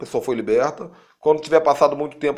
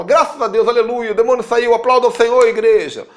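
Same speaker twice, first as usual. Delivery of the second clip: jubilant praise; 7 semitones higher, 6 dB louder than usual. Retold or imitated. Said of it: "às vezes você fala".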